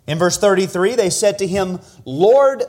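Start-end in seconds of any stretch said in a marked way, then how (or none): 2.1-2.6 louder, higher call for help; retold plea. Blind men plead with Jesus for sight, calling out. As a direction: call out in a preacher's imitated plea.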